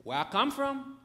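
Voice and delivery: put-on high little-child voice; lightly put-on young girl. Voices little daughter's question.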